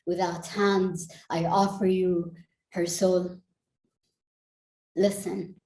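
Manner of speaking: spoken-word poem, measured and deliberate phrasing; poetry recital. Acted. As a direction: recite it as a poem, letting phrases land between pauses.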